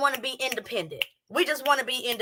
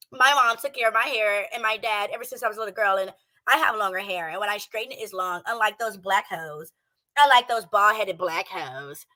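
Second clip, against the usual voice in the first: mocking her; 4 semitones lower than usual. Streamer mocking the woman's voice, low and snide. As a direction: mimic her lightly, mocking. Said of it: "you want your voice to sound like this".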